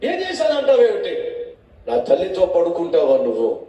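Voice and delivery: high outraged interrogation; outraged rebuke with a laugh in it; angry questioning. Acted. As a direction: accuse him, scandalised. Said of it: "అని చెప్పి ఇష్బోషేతు అబ్నేర్ని ప్రశ్నించాడు".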